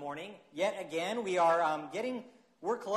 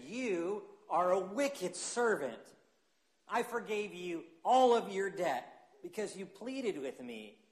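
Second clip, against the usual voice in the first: stern master; slower than usual. Acted. Master rebukes wicked servant.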